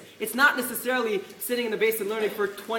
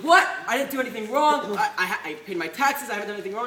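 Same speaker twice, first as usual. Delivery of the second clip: indignant protest; 3 dB louder than usual. Retold or imitated. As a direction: protest your innocence in disbelief. Acted protest at threatened arrest.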